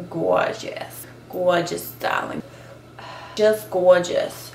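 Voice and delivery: camp diva sign-off; signature catchphrase. Acted. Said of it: "It's my, my fake sig".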